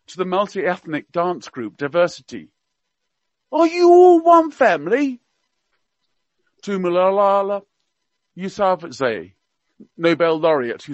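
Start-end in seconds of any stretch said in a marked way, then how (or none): 3.5-5.2 higher, hammed-up Cockney accent; Prince Philip in Cockney. Radio guest quoting royal gaffes to listeners, mock Cockney accent. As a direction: play the old duke's gaffes in mock Cockney. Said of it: "he spoke with a Cockney accent".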